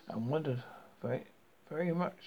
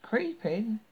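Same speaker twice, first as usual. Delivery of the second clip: high, coaxing witch voice; 8 semitones higher than usual. A narrator's reading. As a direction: lure her in sweetly. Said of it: "said the witch".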